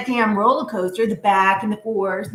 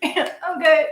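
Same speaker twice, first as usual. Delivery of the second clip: dismissive; 6 semitones higher, 4 dB louder than usual. Pretend. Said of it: "punch somebody in the throat".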